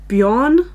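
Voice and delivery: "Bjorn" said as one syllable, "byorn", with a rising question; guessing the name. Shown as a demonstration. Guessing how English speakers say the Norse name, tentative. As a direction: try "Bjorn" as a quick single-beat "byorn", tentative. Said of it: "how people who speak English pronounce that name".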